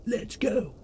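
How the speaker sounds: very high drawn-out fan yell; mock sports cheer. American fan celebrates a touchdown, high mock cheering. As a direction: cheer high, stretching the team name.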